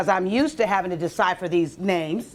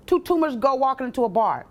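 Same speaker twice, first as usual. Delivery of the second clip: pitched up like a punchline; high, bouncy joke setup; joke setup, high and bright; 4 semitones higher than usual. Shown as a demonstration. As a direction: sell it as a bar joke. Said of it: "That's funny".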